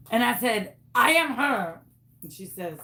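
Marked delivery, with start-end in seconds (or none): 0.9-1.8 insistent, lightly hammed French-Canadian accent; fake Canadian accent. Caller repeating she is her friend, fake Canadian accent. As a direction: stand firm in a phony French accent. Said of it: "What happened to your accent?".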